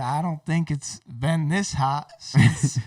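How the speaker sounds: put-on Southern accent. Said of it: "he's even talks like".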